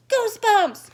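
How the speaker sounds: put-on high, loud excited yell of a boy; shout. Sheldon shouting out to Lucille that he sees goosebumps. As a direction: blurt it out, thrilled. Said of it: "shouted Sheldon".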